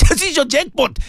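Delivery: laughing. Real, not acted. Preacher repeats his punchline to listeners, laughing. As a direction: say it again chuckling, tickled.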